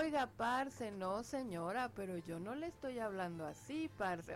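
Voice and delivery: put-on a touch of Colombian accent, talking back; mock Colombian accent. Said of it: "Sí, dicen".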